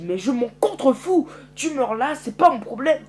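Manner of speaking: callous scorn. Acted. Cruel reply to Herschel.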